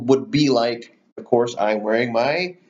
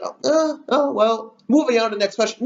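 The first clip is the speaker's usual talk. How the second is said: nervous, much higher mock moderator voice; 9 semitones higher than usual. Moderator letting a dodged question slide, high mock voice. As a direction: squeak out the dodge like a flustered host. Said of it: "The moderator's like".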